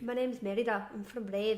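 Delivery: put-on amateur Scottish accent as a film princess; badly faked, playful Scottish accent; Scottish accent attempt. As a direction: have another go at a Scottish accent. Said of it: "wait, do it again".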